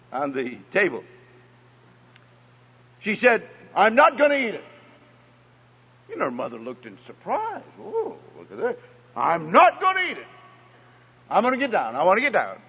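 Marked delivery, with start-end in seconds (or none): 3.8-12.6 put-on stubborn little girl. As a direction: pout it out like a defiant toddler. Little girl refusing her oatmeal.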